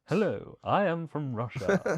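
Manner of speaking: slow, laughing fake Russian accent; laughing through a bad Russian accent; mock Russian accent. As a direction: ham up a thick Russian accent. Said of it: "very thick Russian accent".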